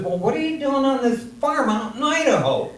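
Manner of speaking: mildly acted bewilderment; baffled question. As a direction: ask it as if it makes no sense.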